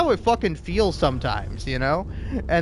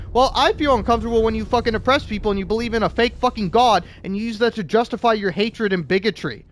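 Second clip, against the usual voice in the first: much higher and louder, shouting at the end; angry yell at puritans over censorship; furious rant; 7 semitones higher, 4 dB louder than usual. Real, not acted. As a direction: yell it back at them, building to a scream. Ranting back at imagined puritans.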